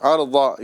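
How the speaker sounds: ارضا said short with a d-like ض; ارضا as a quick faulty example; wrong Dad. Shown as a demonstration. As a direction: show ارضا the wrong way, without the full ض. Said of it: "یہ نہیں کرنا ہے".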